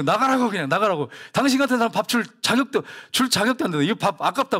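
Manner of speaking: mildly acted indignant scolding; retold angry pastor. Pastor throwing the beggar out, mild retold anger. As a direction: imitate an offended host ordering someone out. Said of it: "그 목사님이 화가 나잖아".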